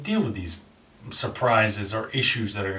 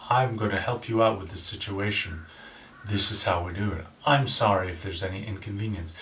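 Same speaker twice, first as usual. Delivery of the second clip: low, calm and reassuring; smooth radio host; late-night DJ voice; 3 semitones lower than usual. Shown as a demonstration. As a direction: settle them down gently. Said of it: "start off with your F M D J voice".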